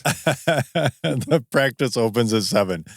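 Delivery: drawn out, very slow, each word weighed; slow mocking echo. Friend teasingly echoes Terrence's careful line, slow mock. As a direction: echo the line slowly, savouring how careful it was.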